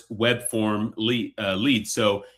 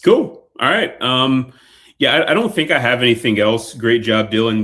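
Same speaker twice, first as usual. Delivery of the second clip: louder, upbeat sign-off to the AI receptionist; 8 dB louder than usual. Real, not acted. Presenter calling out to the AI voice agent, loud and cheerful. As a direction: raise your voice so the speakerphone bot hears you, friendly and pleased. Demo caller talking to AI agent.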